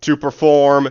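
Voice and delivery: slow, loud, drawn-out disbelief; mocking the legal text, slowly and loudly; mock incredulous reread. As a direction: drag the words out loud like it's absurd. Mock-reading the legal clause in disbelief.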